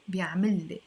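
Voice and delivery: بيعمل لي as bya3-mil-le; one word, bya3-millé, i before the double l; correct joined form. Shown as a demonstration. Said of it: "That's how you will pronounce it".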